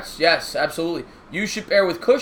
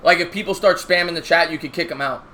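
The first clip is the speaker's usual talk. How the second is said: ordinary talk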